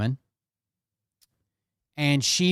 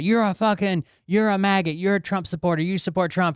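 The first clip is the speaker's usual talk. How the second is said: mock accusing yell; 5 semitones higher than usual. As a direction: ham up an angry online accuser. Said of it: "Somebody be called out about".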